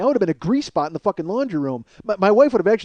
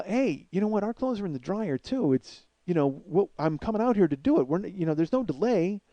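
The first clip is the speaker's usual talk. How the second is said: softer, reasonable explanation; politely smooth things over; easygoing, conciliatory tone; diplomatic; 4 dB quieter than usual. Acted. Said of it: "I'm very diplomatic".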